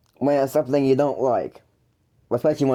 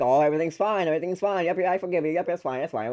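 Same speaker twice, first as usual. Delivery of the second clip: higher, softer fake reassurance; happy mask; 3 semitones higher, 3 dB quieter, faster than usual. Putting on a happy mask for brother, falsely reassuring. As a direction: rattle off pretend that all is well. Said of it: "put on the happy mask and be like".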